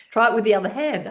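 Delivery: high, loud, laughing through the words. Real, not acted. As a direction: give the instruction mid-laugh.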